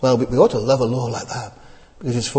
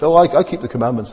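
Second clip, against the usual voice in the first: smug quote; much faster than usual. Retold or imitated. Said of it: "they say".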